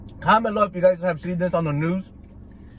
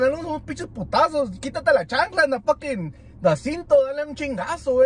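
worked-up; 6 semitones higher than usual. Acted. Urging parents to discipline.

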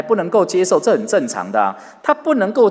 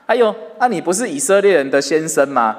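teasing. Acted. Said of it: "表面上是笑他".

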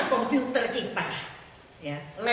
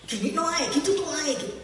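inner voice imitation; 7 semitones higher than usual. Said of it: "ada suara ngomong".

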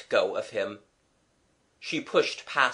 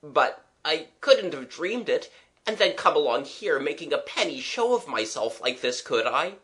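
put-on mildly flustered young man, pitched up; a hint of embarrassed protest; bewildered gentleman friend; 4 semitones higher than usual. Young man doubting he dreamed it all, bewildered.

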